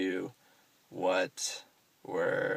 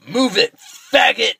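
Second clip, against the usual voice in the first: much higher, much louder hateful yell; 14 semitones higher, 14 dB louder, slower than usual. Retold or imitated. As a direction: bark it across the garage at him. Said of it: "And he yells it, like, super loud".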